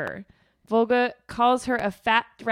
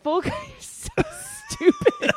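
exasperated mockery. Mocking Volga, voiced exasperation.

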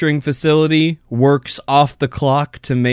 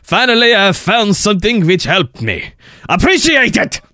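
put-on stereotypical French accent; 2 semitones lower than usual. Host reads a spam comment aloud in a mock French accent. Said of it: "in a stereotypical French accent".

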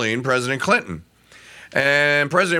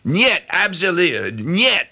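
mock Russian; 3 semitones higher than usual. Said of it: "Putin go".

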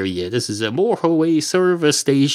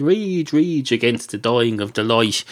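poem recital. Retold or imitated. Comedian correcting the poet's line, recited plainly. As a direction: deliver the real line, falling back to normal pitch.

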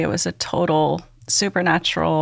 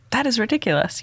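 higher, indignant retort at usual volume; mildly indignant, pitched up; retold indignation; 6 semitones higher, faster than usual. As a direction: recall being mad in disbelief. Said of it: "the maddest I've been in my whole life".

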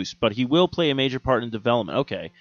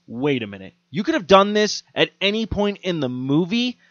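incredulous movie heckling, climbing high; exasperated viewer; 6 semitones higher than usual. Retold or imitated. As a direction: argue with the screen, rising to a high-pitched question. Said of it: "I'm sitting there going".

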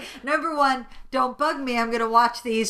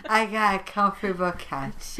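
suggestive; 4 semitones lower than usual. Real, not acted. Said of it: "Is that a euphemism?".

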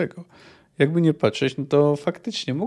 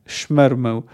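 measured audiobook narration; story narration. A narrator's reading. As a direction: read the battle scene as a storyteller. Reads the novel aloud. (narracja powieści)

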